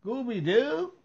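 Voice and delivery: high whiny plea; whining child. Retold or imitated. Child on the floor begging mama, whiny plea. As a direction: whine it like a bored little kid. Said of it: "Girl, why am I watching this?".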